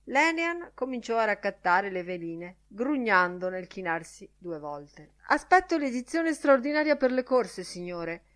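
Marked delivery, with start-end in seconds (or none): 5.3-8.2 put-on high-pitched pleading boy; newsboy. A narrator's reading. Newsboy explaining himself to the gentlemen, high-pitched. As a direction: pipe up like a street kid to his boss. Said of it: "disse lo strillone".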